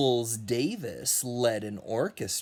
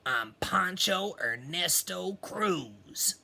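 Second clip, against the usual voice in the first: higher, lightly voiced pig; friendly pig; 6 semitones higher than usual. Pig greeting Duck, friendly and higher. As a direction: greet him like a cheerful drummer. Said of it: "said Pig".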